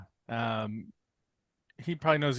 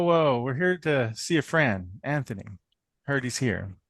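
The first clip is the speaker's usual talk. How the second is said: lightly attempted Russian accent, sounding almost Midwestern; attempted neutral Russian accent. Player tells Anthony they're visiting a friend, attempted neutral accent. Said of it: "trying to do a Russian accent".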